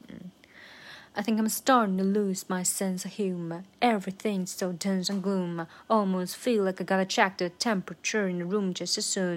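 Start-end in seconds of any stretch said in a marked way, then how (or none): 1.2-9.4 brisk, rhythmic full-tempo run; normal speed. Shown as a demonstration. Teacher running through the verse once more, brisk and rhythmic. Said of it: "长速过一遍吧".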